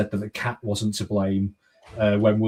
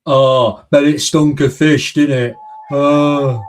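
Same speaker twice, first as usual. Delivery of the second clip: mock disgust; 5 semitones higher, 9 dB louder, slower than usual. Mock disgust exclamation, loud.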